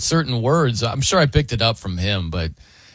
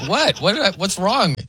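retold confusion; 6 semitones higher than usual. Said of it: "And I'm like".

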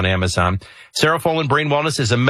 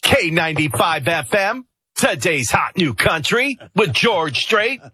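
slow, syllable-by-syllable DJ voice; drawn-out country DJ announcing; country radio voice; 6 semitones higher than usual. Shown as a demonstration. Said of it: "Country radio voices are always in syllables".

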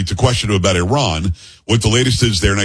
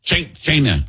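"China" pitched up in imitation of the president; attempted presidential "China", higher than usual; president's "China"; 4 semitones higher than usual. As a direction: mimic how the president says "China". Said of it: "How, how does the president say it".

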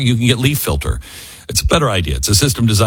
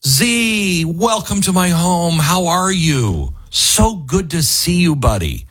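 mock Trump greeting; 6 semitones higher, slower than usual.

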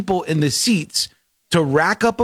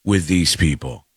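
mock war cry; 5 semitones lower than usual. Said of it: "I go".

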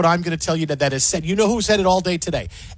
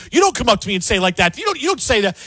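mock indignant protest; 3 semitones higher, faster than usual. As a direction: rattle it off like an offended pundit. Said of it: "They're saying".

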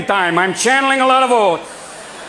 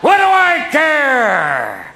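laughing shout; 5 semitones higher, much slower than usual. Pretend. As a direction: toss it off with a big laugh.

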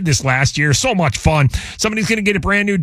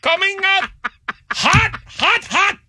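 higher, slow, hammed-up vendor call; hammed-up Spanish Bigfoot; 14 semitones higher, slower than usual. Host voices Spanish Bigfoot selling meat, higher and slow. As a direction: hawk the meat like a cartoon street vendor. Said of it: "Why is Bigfoot speaking Spanish?".

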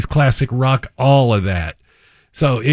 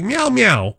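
mimicking crying toddler; 9 semitones higher than usual. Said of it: "she's crying like".

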